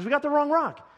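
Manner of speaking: high-pitched mock exasperation; exasperated. Pastor acts out protesting the wrong rock, exasperated.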